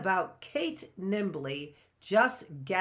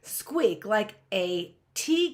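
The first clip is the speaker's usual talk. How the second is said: squeaky; 4 semitones higher, slower than usual. A narrator's reading. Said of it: "commences to stutter and squeak".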